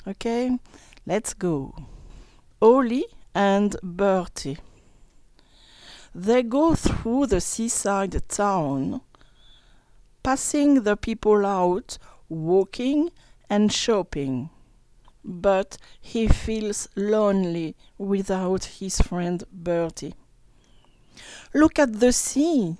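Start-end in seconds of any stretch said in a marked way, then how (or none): 2.6-20.1 story reading. Acted. Reads story to class. 21.5-22.8 lightly voiced Ollie, a bit higher; a touch of Ollie calling. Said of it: "says Ollie".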